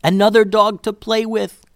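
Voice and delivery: high, loud, eager dog voice; excited dog. A narrator's reading. Sassy thinking of another dog to play with, excited. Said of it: "Sassy snorted her own excitement".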